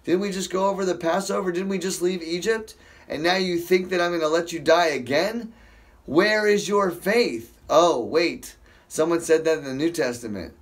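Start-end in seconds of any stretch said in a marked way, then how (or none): 0.0-7.5 exasperated God. Retold or imitated. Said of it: "He's like".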